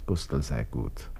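soft, slow murmur to himself; quiet self-reassurance. Acted. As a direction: settle yourself down, slowly and softly. Calming himself alone.

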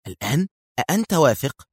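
questioning, voice rising in surprise; astonished. A narrator's reading. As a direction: echo it back in disbelief. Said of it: "هتفت بكل دهشتها". (بدهشة واستفهام)

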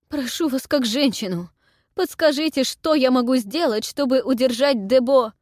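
high, loud babbling plea; frantic pleading. A narrator's reading. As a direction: beg her in a rush. Anhel begs for advice.

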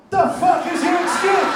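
shout. Real, not acted. Ranting at audience.

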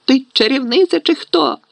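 high-pitched outraged yell; angry roar. A narrator's reading. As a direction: demand it in exasperation. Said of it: "заревів Рон".

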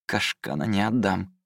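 numb lips. Acted. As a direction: barely squeeze it out, lips numb. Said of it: "еле выдавил он непослушными губами".

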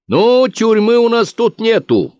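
lightly voiced bookkeeper answering hecklers. Bookkeeper answers the crowd's shouts, high and slow.

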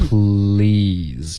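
"please" slow with clear l and final z; correct please. Shown as a demonstration. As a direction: say "please" slowly, buzz the z. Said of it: "所以是please".

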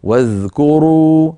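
واذكروا drawn out slowly; stopping demo; pausal stop. Shown as a demonstration. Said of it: "لو وقفنا على واذكروا".

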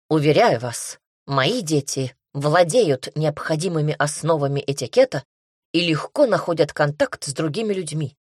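mildly snapping offended father; a touch of a hurt, curt retort; stung bark. Acted. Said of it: "рявкнул задетый за живое папаша". (задетый отец огрызается, слегка резко)

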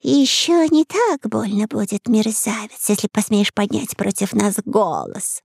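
threatening. A narrator's reading. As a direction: threaten slowly from above. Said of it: "пригрозила ящерица".

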